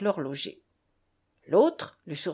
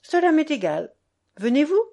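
higher, louder dismissive retort; defiant; 5 semitones higher, 6 dB louder than usual. A narrator's reading. Mother answering grandfather's curse at the door, defiant. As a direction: brush off the threat and challenge him.

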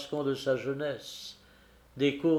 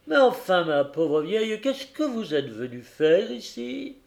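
softening; 5 semitones higher than usual. Acted. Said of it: "se radoucissant".

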